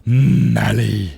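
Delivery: loud, drawn-out delighted name call; excited greeting. Real, not acted. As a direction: gasp and greet a friend who just turned up. Greets Mally arriving mid-sentence.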